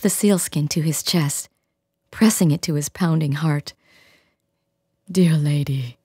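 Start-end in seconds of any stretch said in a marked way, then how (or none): 5.1-6.0 gentle. Acted. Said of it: "he said gently".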